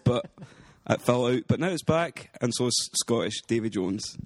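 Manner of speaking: light put-on Scottish accent, rolling the r's; casual chat in a hammed-up Scottish accent. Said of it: "do at least a wee bit of the podcast in a, a Scottish accent".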